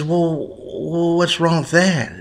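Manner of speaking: high puzzled wife; voiced wife. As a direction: play her puzzled and naive.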